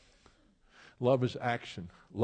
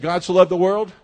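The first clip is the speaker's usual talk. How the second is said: "God so loved the world," much louder, "loved" punched; emphatic repeat; 6 semitones higher, 11 dB louder than usual. Shown as a demonstration. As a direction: repeat it, driving it home. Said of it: "I said".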